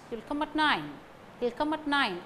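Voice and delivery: "at" unstressed, weight on "nine"; weak "at". Shown as a demonstration. Teacher showing weak prepositions, "at" unstressed. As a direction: slip quickly past "at" to "nine". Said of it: "These articles also do not carry".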